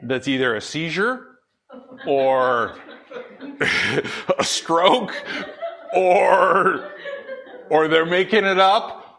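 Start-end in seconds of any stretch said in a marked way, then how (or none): 2.1-9.0 chuckling while listing the options; laughing. Real, not acted. Preacher to congregation, mocking fake tongues, laughing.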